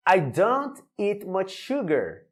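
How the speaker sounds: "I don't eat much sugar" read slowly, each word clear; slow model sentence. Shown as a demonstration. Teacher modelling the sentence slowly for students. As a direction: spell it out slowly. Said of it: "Mais um exemplo".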